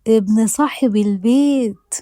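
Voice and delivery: slow, drawn-out curious question with a falling end. Acted. Huda to Aysel, teasing about the landlord's son, slow and curious. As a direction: linger on البيت as if sniffing out gossip. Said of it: "بنظرة فيها فضول وقالت".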